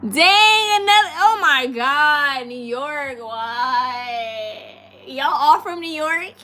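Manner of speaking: high, loud laughing groan; shrieking laughter at the news; laughing dismay. Real, not acted. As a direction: crack up in mock despair. More New York viewers appear.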